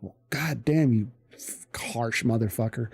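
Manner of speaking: swearing under his breath at the harsh instructor; whispered cursing. Retold or imitated. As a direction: mutter it so the instructor can't hear. Muttered inner thought at drill instructor.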